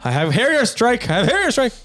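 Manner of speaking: high, excited mock whine; frantic gamer kid. Gamer kid telling mom about killstreak, mock frantic. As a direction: imitate a kid insisting in a high voice. Acting out gaming kid pleading.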